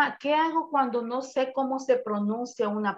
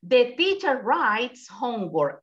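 slow model reading; 3 dB louder, slower than usual. Shown as a demonstration. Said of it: "usted lea como usted considera que es".

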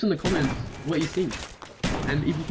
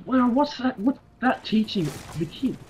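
mock-serious rant; 4 semitones higher than usual. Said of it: "I couldn't keep a straight face".

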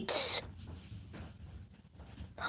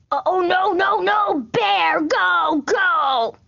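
mock alarm; 3 semitones higher than usual. Sees a bear.

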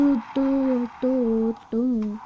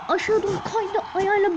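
"Aşağı doğru kaydı" said higher with a rise on "aşağı"; "Aşağı doğru kaydı" raised, excited recap; lively retelling; 5 semitones higher, faster than usual. Retold or imitated. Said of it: "Adam ne yaptı biliyor musunuz?".

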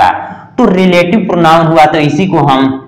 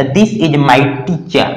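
very slow, word by word; slow model sentence; much slower than usual. Shown as a demonstration. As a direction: read the example slowly. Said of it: "तो".

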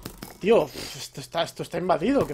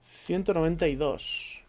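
slow, spelled-out number; dictating coordinates slowly; slow dictation; 4 dB quieter, slower than usual. Real, not acted. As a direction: read it out slowly as you jot it. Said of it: "que lo apunto".

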